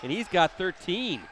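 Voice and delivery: excited shouted play call; big loud hype call; sideline yelling. Real, not acted.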